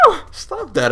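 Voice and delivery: squeaky high falsetto woman voice. Retold or imitated. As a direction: shoot way up into falsetto. Eva voiced pushing Ocelot away.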